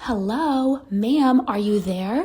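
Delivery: slow, acted-out calling-out voice. Telling how someone in her home woke her, imitating someone calling out. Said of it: "the person calls out to me again".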